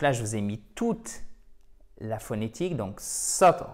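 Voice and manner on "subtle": subtle with the weight on SUT, silent b; stress on first syllable. Shown as a demonstration. Teacher showing where the tonic accent falls, stressed first syllable. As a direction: punch the first syllable of subtle, let the second drop. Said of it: "accent tonique ici".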